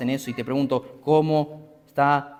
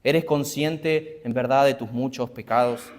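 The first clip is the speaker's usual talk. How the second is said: the question drawn out slowly, "eres" stressed; slower repeat; slower than usual. Real, not acted. Preacher repeats his question to the congregation, slowly. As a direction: ask it again slowly and deliberately. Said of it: "otra pregunta".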